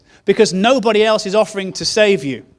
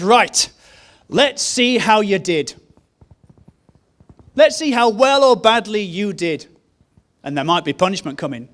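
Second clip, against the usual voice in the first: stern judging God. Retold or imitated. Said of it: "a God who ... says".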